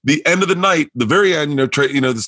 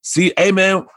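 imitating Tony; 3 semitones higher than usual. Teller voices Tony's invite.

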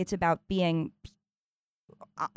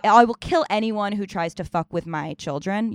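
mildly fierce, louder vow; protective lioness; 2 semitones higher, 5 dB louder than usual. Acted. Mother warning off threats to her children, with a touch of ferocity. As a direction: push it out like a mother defending her young. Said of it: "lioness, protector".

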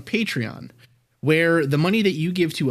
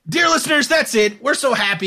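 mock announcer voice; 9 semitones higher, 4 dB louder than usual. Mock sign-off to listeners.

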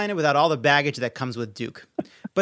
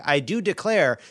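half-hearted mock Southern belle lilt, pitched up; bad Southern accent; 4 semitones higher than usual. Host mocking the senator while introducing a game, bad Southern accent. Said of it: "I Can't Do a Southern Accent".

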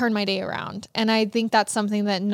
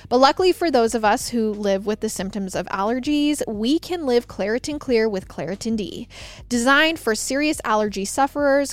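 ad read. Acted. Host reads allergy ad.

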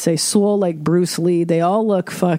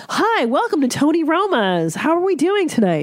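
high, bubbly restaurant greeting; perky hostess; 10 semitones higher than usual. Retold or imitated. Comedian imitating a hostess greeting her stepmother: bubbly high voice. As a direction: greet diners with fake cheer. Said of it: "disdain for the hostesses that would greet you".

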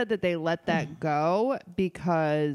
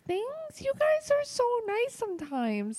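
sarcastic. Acted. Teasing friends after compliment.

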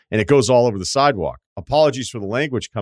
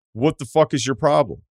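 higher, punchier angry retort; heated retort; 5 semitones higher than usual. Retold or imitated. Reading a listener's angry line to the stranger, heated. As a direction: fire it back at the stranger harder. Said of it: "making up for the not swearing".

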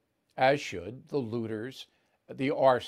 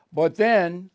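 emphatic but then; 5 semitones higher, 9 dB louder than usual. Real, not acted. Dramatic build before Capitol breach.

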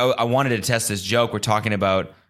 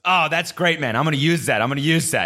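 higher, hyped Jersey dude; imitating the Jersey dude; 6 semitones higher than usual. Retelling the Jersey guy's reaction, higher and hyped. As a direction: voice the excited stranger stealing the joke. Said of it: "he goes".

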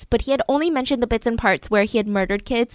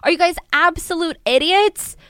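higher, scolding faster; detective scolding his officers, higher scolding voice; mock yelling detective; 6 semitones higher than usual. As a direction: imitate a boss chewing out his team. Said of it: "yelling at his lower ranks".

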